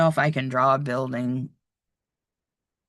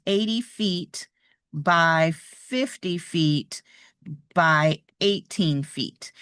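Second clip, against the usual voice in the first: slow, spaced reading; slower than usual. Shown as a demonstration. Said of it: "it could look like this".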